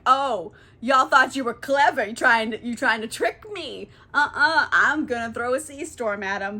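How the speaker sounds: angry god. Retold or imitated. Poseidon catches the trick, threatens.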